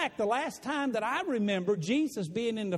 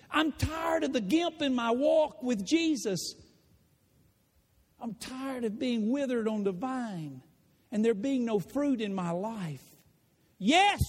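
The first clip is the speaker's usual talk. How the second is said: pleading yes; 3 semitones higher than usual. Acted. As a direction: beg to be healed. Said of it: "the easiest answer would be yes".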